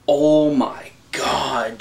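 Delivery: slow breathless whisper of awe; awed whisper. Real, not acted. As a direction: whisper it, stunned by the scene. Awestruck about the fight scene.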